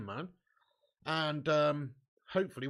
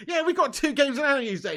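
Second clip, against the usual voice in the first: smug sing-song mock of a rival fan, louder and higher; hammed-up taunting impression of a rival fan; mocking the commenter; 7 semitones higher, 6 dB louder than usual. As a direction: parrot his gloating back at him. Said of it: "He's like".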